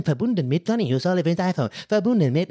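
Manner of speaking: lightly done robotic announcement; a hint of the machine voice reading out the device; computer voice. Mocking the headphone connection message in a light robotic voice. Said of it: "diese dumme Computerstimme immer so".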